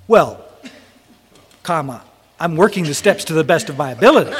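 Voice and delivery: mock hedging excuse with a laugh; evasive excuse. Young Chris dodging the old sponsor's question, sheepish hedge. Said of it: "Which always translates to".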